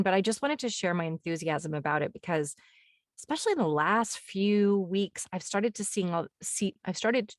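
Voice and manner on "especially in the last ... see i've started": talking through hiccups; words broken by hiccups. Real, not acted. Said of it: "I'm hiccuping".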